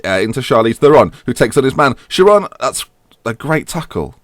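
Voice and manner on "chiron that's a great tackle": a light mock Italian accent; slower, higher, hammed-up Italian commentator; a hint of an Italian accent on the call. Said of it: "tried to do an Italian accent".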